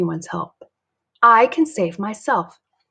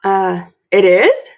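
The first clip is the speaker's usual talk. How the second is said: confused dad; 7 dB louder, slower than usual. Acted. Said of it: "looking confused".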